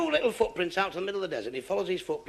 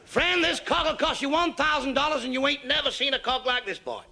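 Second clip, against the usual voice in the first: much higher, slowed American rancher bragging loudly; boastful American accent; 9 semitones higher, 3 dB louder than usual. Acted. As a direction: show off the prize cock in a big Texas accent. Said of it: "I'll speak a bit of American for you now".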